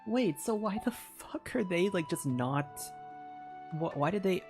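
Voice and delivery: usual speaking voice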